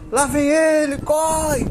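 high, loud warning cry; alarmed shout. Retold or imitated. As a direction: yell it as you run. Spirits flee, calling out.

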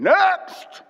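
loud, high call through a door. Retold or imitated. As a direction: bark the next name in line. Principal calling from the office.

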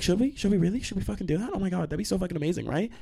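high, sarcastic fake excitement; mock enthusiasm. Answering classmates who want a TikTok, sarcastic gushing. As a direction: pile on questions with mocking glee.

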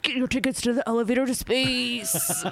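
laughing hype announcer; monster truck ad. Pretend. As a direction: sell it like a rally promo. Joining the mock ad.

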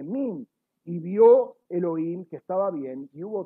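measured reading of scripture to the congregation; lightly formal Bible reading. Acted. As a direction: read the verses out to the listeners, pausing on each Hebrew word. Reads Genesis passage aloud.

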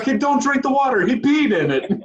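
put-on high, loud, laughing foreign accent; Lars impression. Friend imitates Lars yelling at kids in a high foreign accent. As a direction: bark the pool rules like a goofy lifeguard. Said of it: "And he's like".

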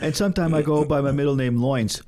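put-on laid-back Brooklyn accent; deadpan Brooklyn wise guy accent. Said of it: "fucking Brooklyn accent".

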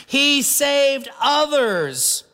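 "He saved others" said slow and sneering, weight on "He"; scoffing mock quote. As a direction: let the scorn hang on "He". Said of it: "they scoffed".

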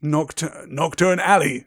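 lightly voiced grim giant; grim Hagrid. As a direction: answer grimly, a little forcefully. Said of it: "said Hagrid grimly".

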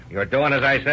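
angry shout. Acted. Husband forcing his wife to obey, angry shout. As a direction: shout her down.

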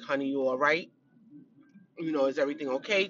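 low, softly voiced concerned wife; gentle checking in. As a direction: imitate a wife quietly checking on her husband. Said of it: "Checking in".

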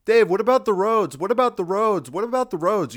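high, loud nagging what about the roads; mocking whiny critic. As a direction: needle him like a pestering heckler. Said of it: "And then people go".

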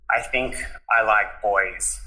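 slow, measured admission; deliberate confession. Retold or imitated. Son repeating his confession to mum after denying it, slow and deliberate. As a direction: spell it out slowly, understated.

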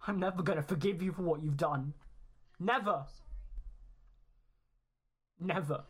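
restrained bitter fury; contained, angry outburst; mild mock scream. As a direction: throw it as an angry accusation. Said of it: "He starts screaming towards you".

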